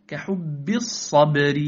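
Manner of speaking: slow "كحب الصبر" with firm, bounced b; strong ba. Shown as a demonstration. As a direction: press each b in "كحب الصبر". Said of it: "واحرص على الشدة". (إظهار شدة الباء في "كحب الصبر")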